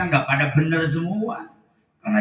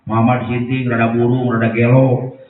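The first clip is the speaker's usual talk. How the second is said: blind man's insults; 4 semitones lower than usual. Acted. Blind Jewish man jeering at the Prophet in the market, lower mocking voice. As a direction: sneer the insults over and over. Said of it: "Ngomongnya begini".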